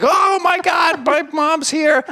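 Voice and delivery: very high, loud shriek, drawn out slowly; the dog hearing its owner over the camera, shrieking with joy; excited dog voice. Retold or imitated. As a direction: squeal with overjoyed surprise. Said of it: "now they're like".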